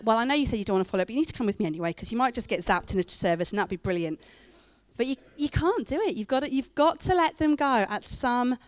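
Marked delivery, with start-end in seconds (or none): 0.0-4.2 mock control freak. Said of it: "I'm a little bit of a control freak".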